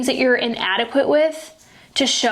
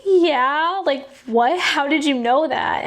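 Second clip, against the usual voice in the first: surprised stranger; 4 semitones higher, slower than usual. Retold or imitated. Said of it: "And she was like".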